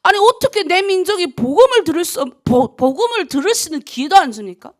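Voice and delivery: loud, high protest without real tears; re-enacted anguished prayer, forceful; retold tearful prayer. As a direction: plead with God for your people, indignant. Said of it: "엄청 울면서 기도했어".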